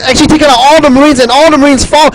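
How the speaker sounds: breathless mid-commentary; out of breath. Real, not acted. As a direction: talk while out of breath. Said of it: "I'm running completely out of breath".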